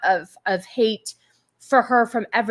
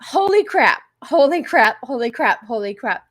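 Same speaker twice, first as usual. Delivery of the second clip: amazed, fading. Real, not acted. Reacting to donation, calming down.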